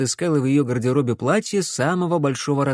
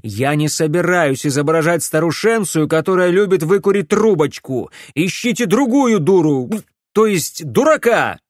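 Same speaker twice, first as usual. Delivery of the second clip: higher, louder furious refusal; raging rant; 5 semitones higher, 6 dB louder than usual. A narrator's reading. Alex refusing to play an old woman, furious. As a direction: hurl it at them, enraged.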